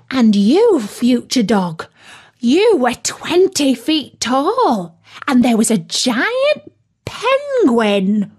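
a touch of amazed wonder, key words stretched; lightly voiced befuddled turkey. Turkey telling friends his strange dream, mildly bewildered. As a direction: recount it with swooping, mildly bewildered emphasis.

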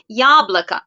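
yablaka with the stress on the first a, every o said as a; Russian pronunciation demo. Shown as a demonstration. Teacher showing students how to say yablaka. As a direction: say yablaka as YAblaka, the unstressed o's turned to a. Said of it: "İlk A'ya vurgu geldiği için diğer O'lar A gibi okunur".

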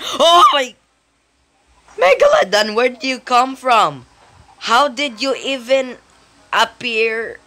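high, loud shock at a sudden attacker; startled alarm. Real, not acted. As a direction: yell out, caught by surprise. Megalodon suddenly appears in game.

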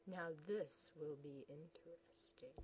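soft, low scheming aside; soft low villainous whisper; sinister whisper. Acted. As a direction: savour the coming trouble.

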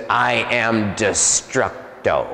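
lightly voiced demon, slow and measured; demon giving its name. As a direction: intone it slowly, as a demon announcing itself. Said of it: "he gave me his name. He says".

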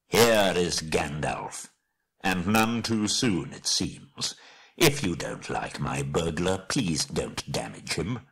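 put-on slow, measured old wizard; unhurried wizard voice, mildly stern; Gandalf, commanding. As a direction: rebuke them calmly with authority. Gandalf reveals himself.

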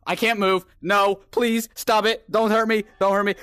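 frightened pleading. Real, not acted. Player stuck before the monster, frightened pleading. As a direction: beg the threat to back off, voice lifted.

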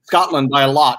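laughing shout; laughing announcement. Real, not acted. Host revealing the result to Billy, laughing shout. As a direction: crow the answer through a laugh.

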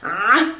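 Ah squeezed as if choking; choking ayn sound. Shown as a demonstration. Teacher showing strengthened air flow, Ah as if choking. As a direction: constrict the throat hard on Ah. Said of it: "like you're choking yourself".

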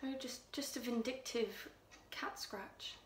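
Louise, hushed and menacing. Acted. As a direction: draw them in with a chilling hush. Louise quietly recounts strangling the cat.

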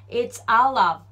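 "out of" run together as "al av", slow demo; teacher models "It's out of" with the linked American "of"; American-style of. Shown as a demonstration. Pronunciation teacher demos the linked "out of" for students. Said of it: "ofもof寄りな感じにして".

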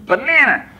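put-on high Hispanic-accented kids' shout of Banana; Hispanic-American accent. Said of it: "particularly with Hispanic accents".

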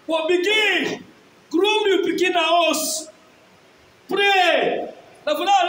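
emphatic, declamatory sermon voice; forceful preaching. Real, not acted. Preacher urging parents to take education seriously, forceful preaching. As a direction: preach it hard to the congregation.

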